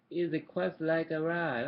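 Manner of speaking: loud, slow ghost; booming ghost voice. A narrator's reading. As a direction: intone it like an old spirit. Ghost speaking.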